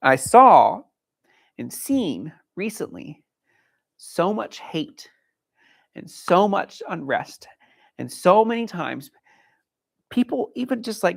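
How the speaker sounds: slow, halting words, fighting emotion; holding back tears. Real, not acted. Trainer speaking to viewers about hate in the field, slow and choked up. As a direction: push through the lump in the throat. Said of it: "trying not to get emotional here".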